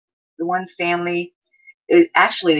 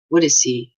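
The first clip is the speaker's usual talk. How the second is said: quoted friend; 3 dB louder than usual. Retold or imitated. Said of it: "I got this email back".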